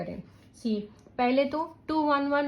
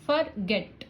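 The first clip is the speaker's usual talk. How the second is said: फॉरगेट with a little stress on गेट; stress on second syllable; slower than usual. Shown as a demonstration. Teacher showing where stress falls, फॉरगेट stressed on गेट. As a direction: say फॉरगेट, leaning slightly on गेट. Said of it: "तो इस पे थोड़ा stress".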